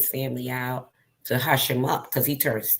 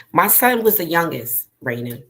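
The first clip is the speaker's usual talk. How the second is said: emphatic; 6 dB louder than usual. Real, not acted. Grieving mother's emphatic statement.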